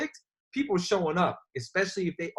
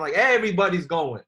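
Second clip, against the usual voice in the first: hyped urgency; 6 dB louder than usual. Shown as a demonstration. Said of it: "That's how you gotta invite".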